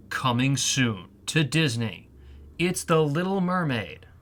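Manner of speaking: lightly done film-trailer announcer; movie trailer voiceover. Shown as a demonstration. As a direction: announce it like a movie narrator, measured at first. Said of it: "a voiceover for the Little Mermaid movie".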